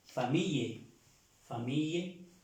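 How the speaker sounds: "famille" as fa-MEE-ye; repeated French "fa-MEE-ye"; double L demonstration. Shown as a demonstration. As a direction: model "famille" twice with a y sound. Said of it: "aquí se pronuncia la L, doble L".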